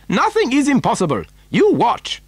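quick, high, confident burst; animated cry. A narrator's reading. Factory owner about to prove grandfather wrong, animated. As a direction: toss it out fast and high. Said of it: "cried Mister Wonka".

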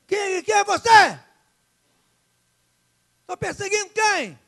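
high, loud, slowed panicked questions; a frightened man calling into the light; startled cry. Acted. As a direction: Saulo shouting in alarm at the voice. Saulo startled by heavenly voice.

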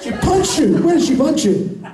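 high, incredulous echo question; mock shock. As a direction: play astonished at the complaint. Mock shock at volunteer's complaint.

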